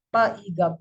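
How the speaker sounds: "pa-iga" as separate phonetic sounds; sounded out. Shown as a demonstration. Teacher breaking pig into its phonetic symbols, sounded out. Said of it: "the phonetic symbol of the word pig is".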